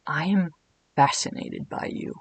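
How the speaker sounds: trailing into a breathy whisper; soft seductive whisper at the end; whispery Cat King. Acted. Cat King whispering his fascination to Edwin. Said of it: "my best Lucas Gage voice".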